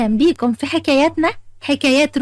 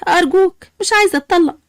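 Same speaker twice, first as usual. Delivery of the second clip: quicker, slightly higher-pitched plea; mildly desperate begging; pleading; 3 semitones higher, faster than usual. Acted. Sara begging her husband not to divorce her, pleading.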